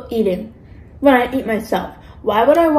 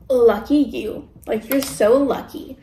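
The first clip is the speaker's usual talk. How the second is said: snide; slower than usual. Retold or imitated. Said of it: "never genuinely happy".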